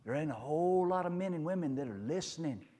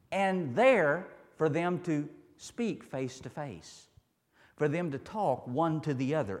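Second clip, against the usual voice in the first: emphatic preaching; 4 semitones higher, 5 dB louder, slower than usual. Real, not acted.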